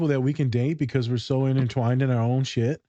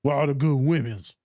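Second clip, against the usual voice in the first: imitating his boy. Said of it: "And then my boy".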